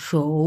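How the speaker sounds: সৌ held low in Chinese third tone. Shown as a demonstration. Teacher reading out a Chinese word, low third-tone সৌ. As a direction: drop the pitch low on সৌ. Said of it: "তিন number tone".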